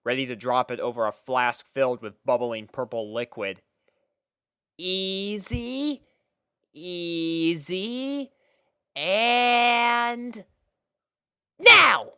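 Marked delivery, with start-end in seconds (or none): 4.8-10.4 high, careful filly voice; steady her gently, pitched way up; Apple Bloom coaxing. Acted. 11.6-12.1 high, loud burst on now; sharp cue shout. Acted. Apple Bloom signals the pour.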